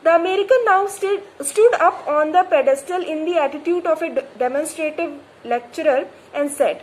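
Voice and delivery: slow, deliberate reading aloud; measured textbook reading; story reading. A narrator's reading. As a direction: read the novel line carefully. Reads story text slowly.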